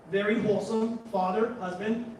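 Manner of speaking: usual speaking voice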